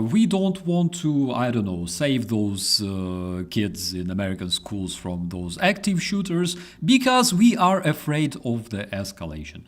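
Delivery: lightly voiced cowardly cop; mock policeman. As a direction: keep ridiculing their excuse. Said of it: "they say".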